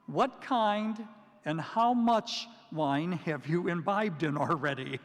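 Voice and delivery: slow, mocking scepticism; sceptical jab. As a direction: tease them like they're drunk. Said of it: "imagine him saying".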